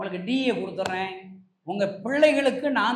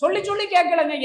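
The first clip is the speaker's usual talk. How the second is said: raised, high preaching plea; impassioned pleading; 6 semitones higher, 6 dB louder than usual. Real, not acted. Preacher tells how Jesus kept weeping beside him, pleading. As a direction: plead with rising urgency.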